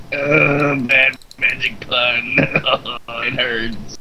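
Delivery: slow mock groan of pain; mocking while crushed. Villain mocking the cleric while being crushed, mock groan. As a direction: groan it out slowly as if being squashed, half-laughing. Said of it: "that guy's just mocking him while being crushed".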